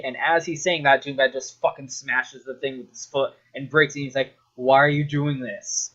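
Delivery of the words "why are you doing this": first, more contained protest; exasperated question. Retold or imitated. Scientist questions Doom Guy smashing the equipment, contained exasperation. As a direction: ask it in exasperation, holding back. Acting out Hayden's rising exasperation.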